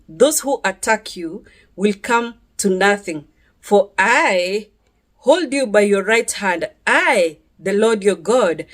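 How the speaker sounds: measured, deliberate Bible reading with pauses; scripture reading. Acted. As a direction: read God's promise out solemnly, phrase by phrase. Reads Bible verses aloud.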